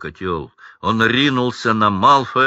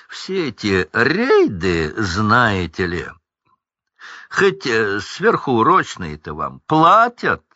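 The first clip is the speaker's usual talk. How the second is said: snide; 2 semitones higher than usual. Acted. Люциус язвит над Уизли.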